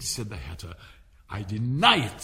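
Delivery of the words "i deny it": louder, flat insistence; firm denial. Acted. March Hare insists to the court, louder and firm. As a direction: deny it hard and loud. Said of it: "said the March Hare".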